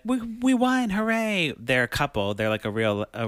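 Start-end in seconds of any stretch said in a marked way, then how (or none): 0.0-1.5 mock cheer.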